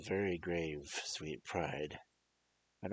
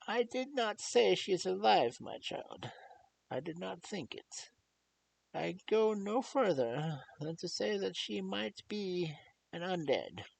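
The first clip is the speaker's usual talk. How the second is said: Van Helsing's measured voice. Acted. Old doctor gently warns the grieving young lord. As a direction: weigh each word like a grave physician.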